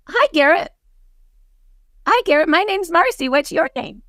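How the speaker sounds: bright, high friendly hello to a stranger; cheery greeting demo. Shown as a demonstration. Demoing a Starbucks hello to Garrett, high and eager. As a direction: play it like meeting someone new. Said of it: "My name is, what is your name?".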